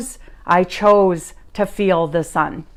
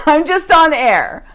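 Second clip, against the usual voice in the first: laughing; 7 semitones higher, 4 dB louder than usual. Real, not acted. Laughing about being so happy.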